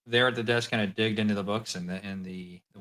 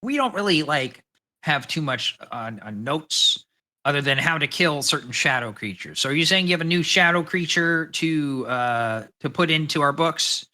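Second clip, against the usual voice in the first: high, loud little gnome voice; chirpy gnome clerk, pitched way up; gnome Walter; 5 semitones higher, 6 dB louder than usual. Acted. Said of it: "the gnome kinda from this note says".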